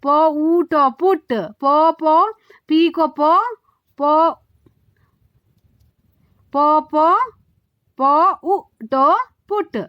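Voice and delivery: "प, ऊ, ट" split then joined into "पुट"; sounding out letters. Shown as a demonstration. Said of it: "उसको हम कैसे आवाज दे रहे हैं". (अक्षर अलग-अलग बोलकर "पुट" जोड़ना)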